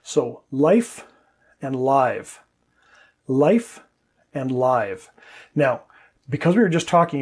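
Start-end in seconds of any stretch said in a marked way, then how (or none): 0.0-2.4 "life" with a short vowel, "live" with the vowel stretched; teacher contrasting "life" and "live" vowel length. Shown as a demonstration. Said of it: "let's take a look at an example". 3.3-5.1 "life" with a short vowel, "live" with the vowel stretched; teacher contrasting "life" and "live" vowel length. Shown as a demonstration. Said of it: "the vowel is a lot longer".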